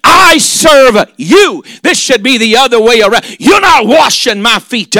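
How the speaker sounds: chanted, shouted preaching cadence; fiery preaching. Acted. Preacher roaring Peter's refusal to the congregation. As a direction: ride the rhythm of the sermon. Preaching at full force, sing-song.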